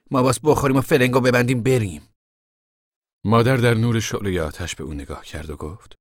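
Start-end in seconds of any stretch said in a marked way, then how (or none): 0.1-2.1 loud, raised, decisive push to go; urgent order. Acted. Tom tells the family to flee, loud and urgent. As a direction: press them forcefully to get moving.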